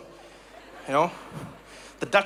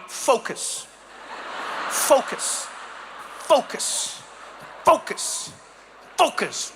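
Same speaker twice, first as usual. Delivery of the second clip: lightly voiced stern, repeated "focus"; serious Dutch cyclist; much slower than usual. Dutch rider sitting straight-backed, intensely serious chant. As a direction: drill each word with intent. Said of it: "in such a serious way".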